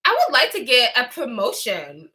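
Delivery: mock Louisiana Valley-girl impression; Valley-girl Louisiana accent. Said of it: "off-brand version plus a Valley girl".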